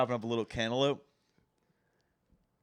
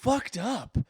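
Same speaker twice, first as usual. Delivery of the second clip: high, loud, stretched-out emphasis; appalled exclamation; 12 semitones higher, 11 dB louder, much slower than usual. Real, not acted. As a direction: draw it out in loud disbelief. Exclaims verdict on the movie.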